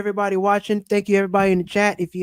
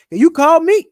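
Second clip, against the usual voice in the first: higher, louder quoted retort; mock protest; 5 semitones higher, 8 dB louder than usual. Quoting a friend about who called whom, mock protest. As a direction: throw it back with playful emphasis.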